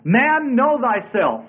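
high-pitched opening on "Man", then falling; solemn pronouncement of a maxim; proclaimed maxim. Acted. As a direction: intone it like an ancient motto. Reciting the Greek maxim.

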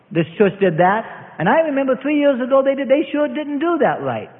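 mild mock complaint to the wife; lightly mocking critic. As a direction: grumble about the church like a faultfinder. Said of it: "and you say".

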